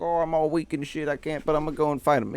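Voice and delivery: mocking Goku as weak but determined, high and fast. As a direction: whine it fast like a feeble hero. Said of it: "He was like".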